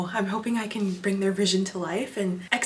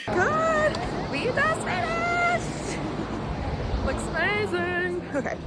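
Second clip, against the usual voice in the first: excited; 13 semitones higher, 5 dB quieter, slower than usual. Real, not acted. Relieved after photo shoot.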